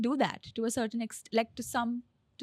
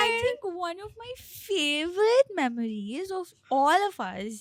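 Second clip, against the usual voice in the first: put-on baby voice; 4 semitones higher, 3 dB louder than usual. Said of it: "talk in a baby voice".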